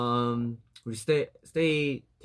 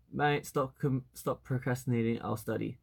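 put-on relaxed, lightly stressed Australian accent; 4 dB quieter, slower than usual. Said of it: "the most Australian accent".

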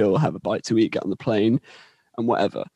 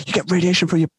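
higher-pitched mock indignation; pissed off; 5 semitones higher than usual. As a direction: imitate an irritated worker scoffing. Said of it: "really pissed off at me".

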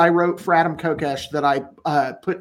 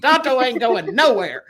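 defiant Tonto; 5 semitones higher than usual. Pretend.

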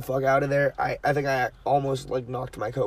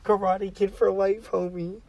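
much louder, higher fan chant; hype shout; 8 semitones higher, 5 dB louder, slower than usual. Acted. Hyping Cobra Kai to friends, loud chanting shout. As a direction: yell it like a dojo battle cry.

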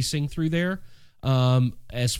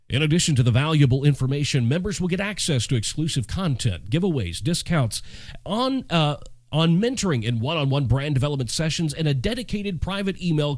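put-on old radio voice. Shown as a demonstration. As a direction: read it like an AM radio DJ. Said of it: "y'all want me to do this in my old radio voice".

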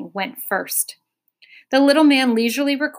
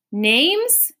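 higher, louder insistent repeat; crying out; 6 semitones higher, 3 dB louder than usual. A narrator's reading. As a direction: demand it again impatiently. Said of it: "he cried again".

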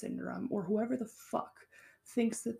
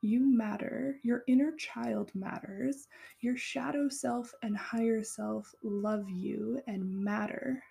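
unhurried loving reassurance to a hurt stranger; tender affirmation. Pretend. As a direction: soothe a hurting stranger with love. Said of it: "a total stranger, can say".

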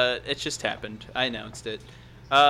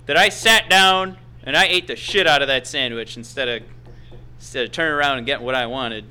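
wrestling promo; 2 semitones lower than usual. Acted. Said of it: "that was some Ring of Honor right there".

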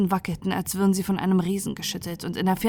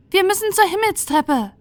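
much higher, louder urgent call; Omini calling out; 11 semitones higher, 6 dB louder than usual. Acted. Omini calls the group toward the sky stairs, high loud cry. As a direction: shout the way to safety over the quake. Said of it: "rief Omini".

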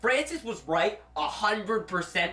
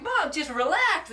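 put-on childish plea; 9 semitones higher, slower than usual. Kid telling mom to relax.

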